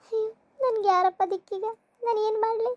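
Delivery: helpless, tearful plea to no one; a touch of sobbing despair; tearful lament. Acted. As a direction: lament as if left all alone. Abandoned wife laments, sob heard.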